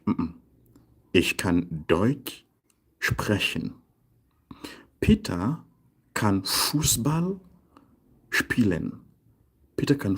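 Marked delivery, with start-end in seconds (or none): 1.1-3.8 stretched Deutsch, then a pause before sprechen; slow corrective model. Shown as a demonstration. Teacher correcting English-style word order, slow modelling. 5.0-9.0 Peter and Fußball raised and held, spielen dropping; slow model sentence. Shown as a demonstration. Teacher giving a können example, slow piece-by-piece modelling.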